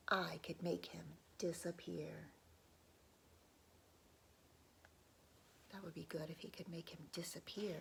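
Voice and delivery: hushed, secretive whisper. Acted. Storyteller drawing children in, soft secretive whisper.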